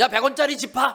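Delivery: swaggering bully taunting tone.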